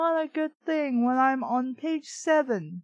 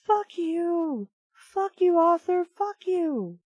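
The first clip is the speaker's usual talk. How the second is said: angry cursing; 5 semitones higher, slower than usual. Real, not acted. Reader cursing at the author, Arthur, angry shout. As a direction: hurl it at the author.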